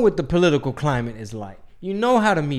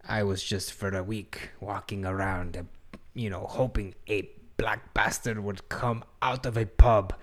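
a hushed, half-whispered retelling of his words; lightly imitating a grave confession, dropping to a whisper; quoting Neeson's confession; 5 semitones lower, 4 dB quieter than usual. Host quoting the actor's interview, hushed mock confession. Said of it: "and he did say".

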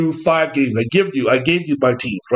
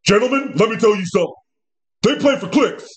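pep-talk coach voice, a touch higher; hammed-up locker room coach; mock coach speech; 3 semitones higher than usual. Coach addressing his team in the locker room, mock pep talk. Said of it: "Coach McDaniels to be sitting up there talking about".

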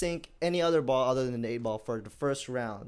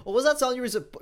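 high, loud laughing question; 10 semitones higher, 6 dB louder, faster than usual. Real, not acted. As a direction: ask it while still laughing. Laughing while asking about song.

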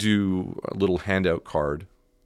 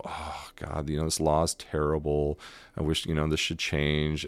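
mock complaining; 4 dB quieter than usual. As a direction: grumble softly, starting on a sighed aside. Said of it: "we can all complain and go".

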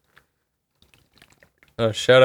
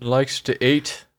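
put-on slow, half-hearted Scottish accent on "Likes to eat"; failed Scottish accent; 2 semitones higher, 3 dB quieter, much slower than usual. Quoting the Scottish doctor, a weak Scottish accent try. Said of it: "I can't, I can't even do it".

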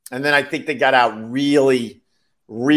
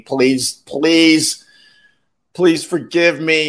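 pleading; 3 semitones higher, much slower than usual. Retold or imitated. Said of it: "just pleading".

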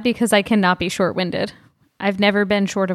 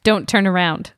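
spooky voice. Acted. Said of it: "in a spooky voice".

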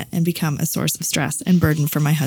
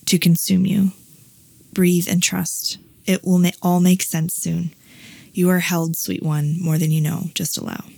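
channelled message read aloud. Acted. Reading her journal to the cohost, calm guiding voice. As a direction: read it gently like a spirit guide.

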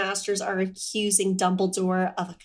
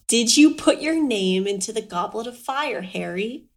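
calm. Retold or imitated. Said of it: "he asked calmly".

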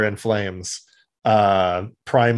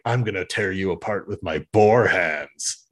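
a lower mocking echo of the threat; deadpan pun voice; lightly voiced boar; 3 semitones lower than usual. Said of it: "Razor Beast is like".

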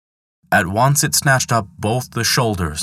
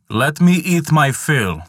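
slow, higher menacing eagle; a big bird bargaining slowly; 7 semitones higher than usual. Acted. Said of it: "said the eagle".

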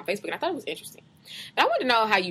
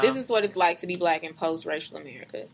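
measured, deliberate read-aloud voice; reading a post aloud; 3 dB quieter than usual. Acted. Reading a Facebook post to a co-host, measured read-aloud. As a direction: read it out slowly and evenly. Rereads the last sentence aloud.

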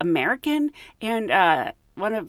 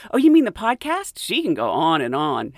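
dismissive coworker; 4 dB louder than usual. Retold or imitated. Coworker mocking the podcast to the group, loud and dismissive. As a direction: toss it off dismissively. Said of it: "she goes".

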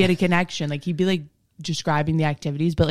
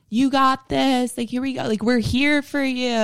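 mock cheering; 9 semitones higher than usual. Mimicking teammates cheering her on.

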